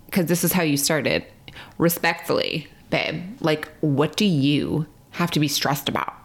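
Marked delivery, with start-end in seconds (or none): 1.8-6.1 mocking husband. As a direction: lightly mimic a dismissive husband. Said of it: "your response to me was like".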